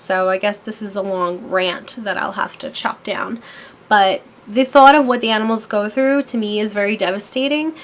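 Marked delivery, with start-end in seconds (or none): 0.0-3.4 whispering a quick aside to the viewers; whispered aside. Real, not acted. Vlogger to viewers about trimming the rant, in a whisper. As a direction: drop to a whisper for the side note.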